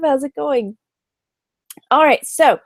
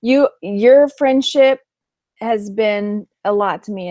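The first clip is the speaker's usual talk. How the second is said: sentimental; slower than usual. Real, not acted. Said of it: "I'm feeling sentimental".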